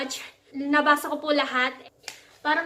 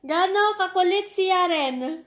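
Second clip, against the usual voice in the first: louder, slower teasing question; playful teasing; 3 semitones higher, 6 dB louder, slower than usual. Real, not acted.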